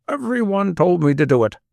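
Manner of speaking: sneering scorn; mock it with contempt; derisive scorn. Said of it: "with derisive scorn".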